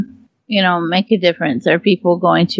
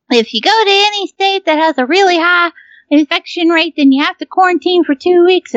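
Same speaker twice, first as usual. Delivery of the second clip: official announcement; 9 semitones higher than usual. Retold or imitated. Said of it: "they were like".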